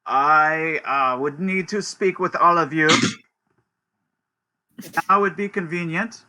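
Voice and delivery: lightly voiced stern inspector.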